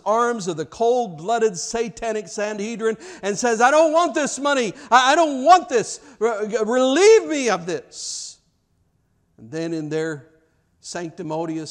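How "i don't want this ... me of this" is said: high, loud anguished outcry, slowing at the end; desperate plea. Retold or imitated. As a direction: shove the money back in despair. Judas returns money in despair.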